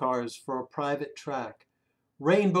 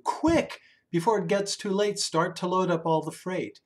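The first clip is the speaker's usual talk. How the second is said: urgent call; 3 semitones higher than usual. Acted. The driver urging the crew to load up, urgent. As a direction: hurry the crew along.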